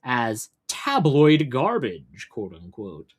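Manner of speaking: measured, emphatic news read; news article read-aloud. Real, not acted. Host reading a news story to stream viewers, news read-aloud. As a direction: read it out like a news report, landing key words.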